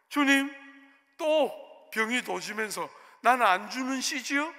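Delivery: loud, indignant address turning into accusation; retold grumbling challenge to God; crooked, sulky prayer. Pastor demanding of God why he gets nothing, defiant. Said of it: "이렇게 삐딱하게 기도하고".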